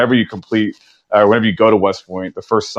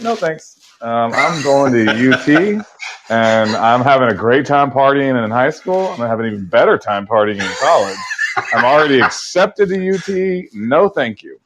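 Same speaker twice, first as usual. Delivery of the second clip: breezy refusal; 4 semitones higher than usual. Retold or imitated. Retelling teenage refusal to friend.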